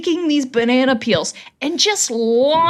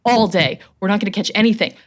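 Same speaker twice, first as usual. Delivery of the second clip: freaking out; 3 semitones lower, faster than usual. Retold or imitated. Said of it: "he starts freaking".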